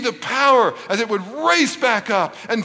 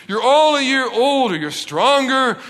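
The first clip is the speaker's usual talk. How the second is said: big encouraging dad sell; pep talk; 6 semitones higher, 3 dB louder than usual. Acted. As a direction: pump them up one word at a time. Dad pep-talking his kids.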